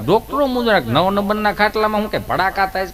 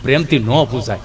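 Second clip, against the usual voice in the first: timid low voice; 6 semitones lower than usual. Acted. Gabho answers nurse, low.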